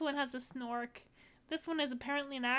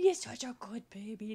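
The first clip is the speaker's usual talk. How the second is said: whispered praise; 3 semitones lower, 5 dB louder than usual. Real, not acted. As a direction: breathe it out like cooing to a pet. Whispering sweetly to the puppy.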